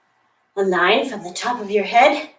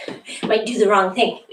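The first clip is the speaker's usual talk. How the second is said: laughing whisper; 2 semitones lower than usual. Real, not acted. Laughing aside mid-exercise.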